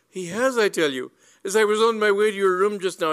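high, loud, urgent tale-telling; eager accusation. A narrator's reading. Cyril blaming his rival to Lady Bassett, high and eager.

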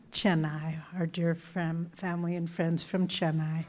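playful whisper; milking the applause. Real, not acted. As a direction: whisper it teasingly to build suspense. Teasing hush while withholding applause.

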